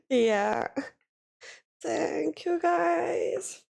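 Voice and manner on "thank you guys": high, choked-up gratitude; emotional, higher-pitched thank you; real tearful thanks. Real, not acted. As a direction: thank them while fighting back tears. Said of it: "Sorry if I'm a bit sensitive".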